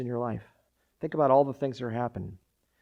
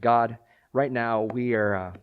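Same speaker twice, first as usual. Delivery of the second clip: louder earnest prayer; 4 dB louder than usual. Real, not acted. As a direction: lead the church in prayer. Leads a prayer.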